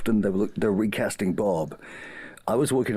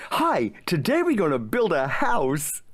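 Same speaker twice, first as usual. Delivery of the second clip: gentle Bob the Builder; 7 semitones higher than usual. Acted. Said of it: "Maybe somewhere in the middle".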